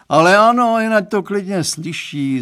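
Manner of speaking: dad insists she may hear it, loudly; exclaiming. Acted. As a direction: call it out heartily. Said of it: "zvolal pan Stránský".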